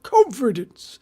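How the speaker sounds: high, loud mock shout in an old man's voice; old gentleman's shout. Psychic relays an old gentleman's word, shouted high and loud. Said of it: "he shouted".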